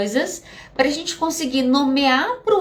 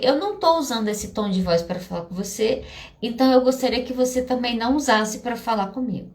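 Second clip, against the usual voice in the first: measured, slightly lowered voice; calm Buddha-like reply. Retold or imitated. Wife setting a limit on tone with partner, calm. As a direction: answer calmly, holding a boundary. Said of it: "respostas meio Buda".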